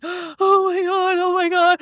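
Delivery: slow, high, breathless oh my God; star-struck. Retold or imitated. Walking away from the pianist, slow and high with disbelief. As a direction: savour the shock, stretching each word.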